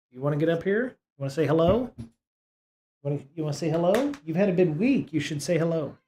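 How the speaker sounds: calling the cat to come up and say hello, coaxing. Real, not acted. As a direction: coax the cat up gently. Coaxing the cat onto desk.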